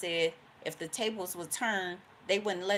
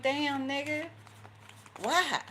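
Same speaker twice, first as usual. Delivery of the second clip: indignant surprise; 10 semitones higher, slower than usual. Retold or imitated. You react to jealousy.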